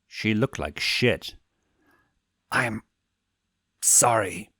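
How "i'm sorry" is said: bitten out. A narrator's reading. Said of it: "she bit out".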